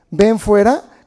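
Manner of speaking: sudden very loud command; shout. Acted. Preacher shouting how Jesus might have called all the dead. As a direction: blast it out like a summons. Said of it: "si el Señor grita nada más".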